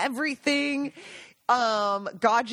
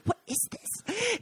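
high, slow, softer mock disbelief; retold disdain; 14 semitones higher, 6 dB quieter, much slower than usual. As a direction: imitate someone appalled by the offering, drawing it out. Retold disdain at stupid-looking treats.

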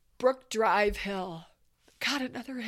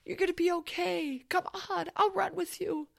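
sweet encouragement; 6 semitones higher, 4 dB quieter than usual. Retold or imitated. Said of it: "she was so sweet".

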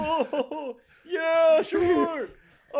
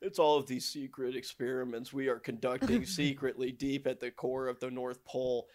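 low villain voice; 12 semitones lower than usual. Acted. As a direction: confide it like a dark overlord. Santa reveals plan, low voice.

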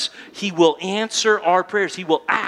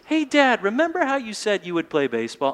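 mock sly kid reminder; 4 semitones higher than usual. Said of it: "he says to me".

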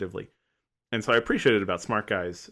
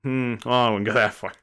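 ordinary talk

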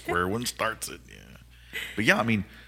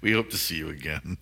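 flight attendant. Pretend. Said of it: "Mom and Pop Airways".

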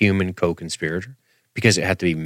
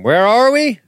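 high mock question; 14 semitones higher, 5 dB louder, slower than usual. Mock announcer scene opening.

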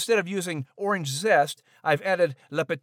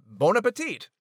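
French imitation; 2 semitones higher than usual. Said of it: "as Liz would say".

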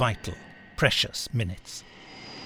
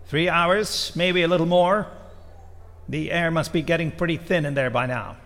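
worried official; 5 semitones higher than usual. A narrator's reading. Superintendent voiced in story.

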